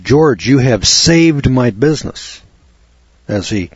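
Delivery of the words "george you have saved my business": higher, slow and emphatic, a touch of awe; retold grateful exclamation. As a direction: lightly act an overjoyed, grateful buyer. Retold grateful buyer exclaims to seller.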